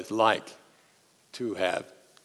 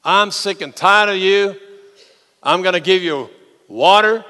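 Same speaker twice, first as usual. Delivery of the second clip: fed-up outburst; 6 semitones higher, 7 dB louder than usual. Acted. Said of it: "Moses then says to the people".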